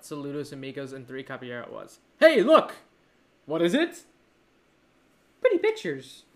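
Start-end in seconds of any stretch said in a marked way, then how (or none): 2.2-6.2 high-pitched cartoon exclaiming; cartoon character impression. Podcaster mocking what the Donald short amounts to, high cartoon voice. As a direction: put on a high, childlike cartoon voice. Mimicking cartoon's naive lines.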